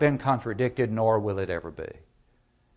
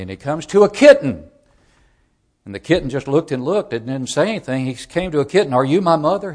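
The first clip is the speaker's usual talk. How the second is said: raised, louder storytelling voice; animated story narration; 4 semitones higher, 9 dB louder than usual. A narrator's reading. Preacher retells a children's book to the congregation, animated storytelling. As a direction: tell the baby bird's journey with big, lifted energy.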